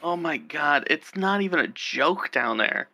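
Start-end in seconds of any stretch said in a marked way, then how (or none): none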